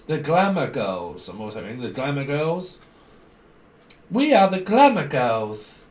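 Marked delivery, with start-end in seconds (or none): 4.1-5.8 high, loud, drawn-out proclamation; showy group announcement. Acted. The glamour girls presenting themselves, showy and drawn-out. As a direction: proudly stretch out GLAMOUR GIRLS.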